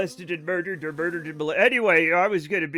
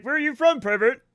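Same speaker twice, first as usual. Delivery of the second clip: higher, louder leering English creep; lecherous pervert impression; 6 semitones higher, 6 dB louder than usual. Teller mocking the pervert accent for the co-host, higher and louder leer. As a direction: ham up a sleazy English pervert. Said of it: "That impression is the most lecherous".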